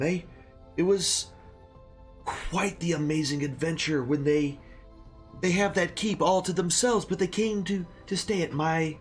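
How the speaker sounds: put-on rambling old innkeeper voice; a hint of a grateful old barkeep; very old man.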